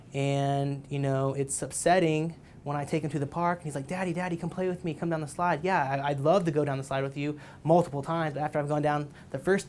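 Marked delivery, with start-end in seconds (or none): 3.9-5.6 put-on lightly higher little boy voice; a hint of a pleading toddler; child's voice. Son begging dad at park.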